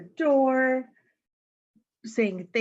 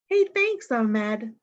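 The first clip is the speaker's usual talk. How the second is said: delighted thanks; 3 semitones higher, slower than usual. Acted. Kid thanking new friend.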